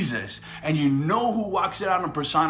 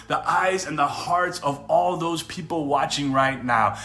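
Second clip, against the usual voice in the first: earnest prayer. Real, not acted. Preacher praying over viewers watching live, earnest prayer. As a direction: pray over the listeners with conviction.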